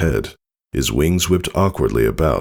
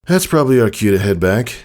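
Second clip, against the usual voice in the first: brisk father; 6 semitones higher, 3 dB louder, faster than usual. Acted. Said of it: "Tycho said".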